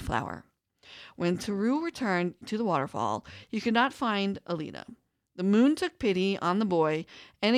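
calm storybook reading; story narration. Acted. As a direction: read it like a folk tale. Reads hummingbird folk tale aloud.

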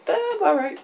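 high, offhand meh; unimpressed shrug. Retold or imitated. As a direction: dismiss it with a shrug. Unimpressed verdict on third movie.

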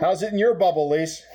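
muffled, talking into a mug; into a cup. Real, not acted. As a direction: speak with a cup over your mouth. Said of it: "we're just talking into coffee cups".

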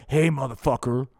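high, loud puppet Nixon bellow; shouted high cartoon Nixon. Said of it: "Dick Nixon's like".

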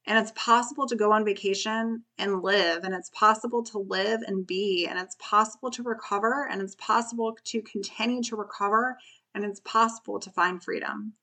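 thin squeaky voice. Real, not acted. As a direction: voice squeaking and strained. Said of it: "sorry for my squeaky voice today".

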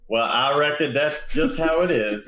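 put-on Southern accent. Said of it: "And then I was like".

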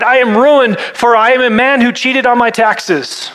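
high theatrical outcry; crying out. Acted. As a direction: declaim it in mock-grand despair. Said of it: "I cried".

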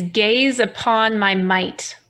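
slow, grand imperious boast; megalomaniac rant. Retold or imitated. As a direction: proclaim it like a vain king. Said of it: "the greeting is".

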